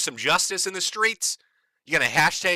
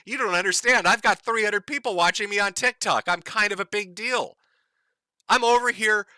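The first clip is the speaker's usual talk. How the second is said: higher, breezy self-important bragging; self-important influencer woman; 4 semitones higher than usual. Retold or imitated. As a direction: play a smug woman showing off. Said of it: "she says".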